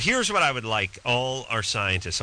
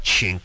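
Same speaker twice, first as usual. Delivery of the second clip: short "chink" imitating a gunslinger's spurs; spoken metallic clink, punched out; imitated spur clink; 5 semitones lower, 3 dB louder than usual. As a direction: mimic clinking spurs with each step. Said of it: "You walk like a gunslinger".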